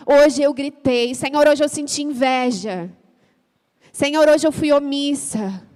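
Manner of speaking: confissão mais alta e lenta; oração de confissão. Shown as a demonstration. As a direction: confesse cada pecado em voz alta, devagar. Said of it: "Chegue com uma lista de confissões". (oração de confissão a Deus, forte e pausada)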